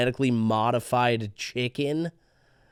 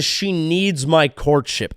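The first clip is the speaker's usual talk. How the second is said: slow, stretched mock; mock pompous; 3 semitones higher, slower than usual. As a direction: drag out MY with scorn. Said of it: "any guy who says".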